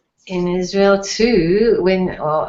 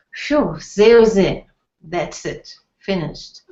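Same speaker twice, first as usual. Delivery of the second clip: relieved sigh of done. Retold or imitated. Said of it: "if you finish some work".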